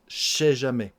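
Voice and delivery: "Je sais" blended almost into "ch'sais"; fast casual. Shown as a demonstration. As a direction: rush "Je sais" into one "ch" sound. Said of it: "si on le prononce très vite". ("Je sais" très rapide, comme "ch'sais")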